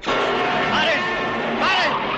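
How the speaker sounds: very high, very loud call to stop; desperate shout. Acted. Father shouting at traffic to stop, desperate. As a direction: yell at the cars with all you have.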